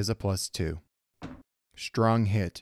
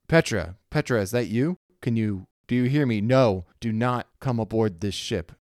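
urgent interrupting; 3 semitones higher, 5 dB louder than usual. Acted. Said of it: "Nakora quickly interrupts".

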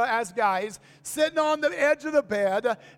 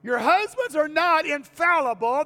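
preacher pushing the congregation for an amen, louder emphatic repeat; louder emphatic restatement; 4 semitones higher, 5 dB louder than usual. Shown as a demonstration. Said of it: "Oh, come on, I thought a big amen for that one".

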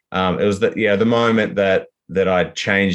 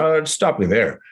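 higher, eager Frank impression; a lightly put-on Frank, pitched up; imitating Frank; 4 semitones higher than usual. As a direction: play Frank excitedly calling someone over. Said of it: "he kinda just said".

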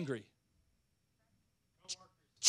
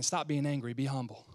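gentle divine word; 5 semitones lower, 5 dB quieter than usual. Acted. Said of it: "he might be saying".

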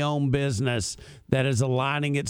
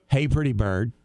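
parrot voice; 4 semitones lower than usual. Retold or imitated. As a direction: lower bird imitation, lightly voiced. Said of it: "She can say".

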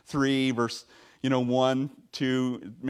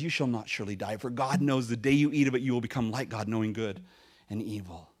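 sly serpent; 4 semitones lower than usual. Acted. Serpent Satan tempts Eve.

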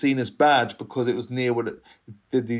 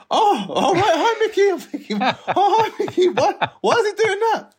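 squeaky, much higher, nervous laugh running through; nervous high greeting; 5 dB louder than usual. Retold or imitated. To the pointing ringleader, a high nervous laughing hello. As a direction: greet him with panicked, giggly brightness.

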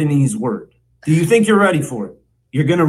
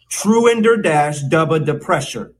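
measured, word-by-word "Truender dash dubba depressure"; slow teaching take. Shown as a demonstration. Mock teacher introducing a very long word, slow and deliberate. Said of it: "Say it a little more quickly".

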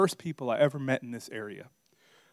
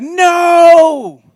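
shrill high shout of alarm; panicked wife; 14 dB louder, slower than usual. Retold or imitated. Wife panicking that a buyer comes in, high shout. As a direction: panic about the messy house. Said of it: "She's like".

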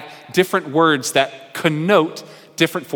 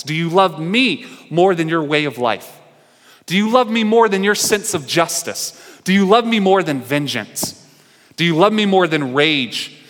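higher, louder pressing questions; insistent questioning; 4 semitones higher, 4 dB louder than usual. Real, not acted. Preacher pressing the question on the congregation, insistent. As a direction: press harder each time.

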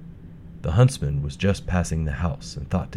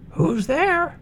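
put-on very high, frail old granny; a thin, feeble grandmother; old woman voice. Grandmother answers door.

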